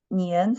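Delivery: nian said with a rising second tone; model second tone. Shown as a demonstration. Teacher showing students the tone of nian, rising. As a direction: let nian rise like a question. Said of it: "second tone".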